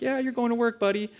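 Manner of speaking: mildly condescending, playing along; patronizing. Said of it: "patronizing him, but it feels that way".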